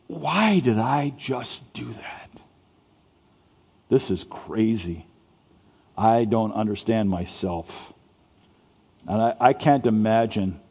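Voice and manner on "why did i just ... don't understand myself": softer, slow and brooding; agonized regret. Retold or imitated. Peter alone, ashamed after denying Jesus, soft and slow. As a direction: ask yourself quietly, in anguish. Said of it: "Can you imagine the agony in his heart".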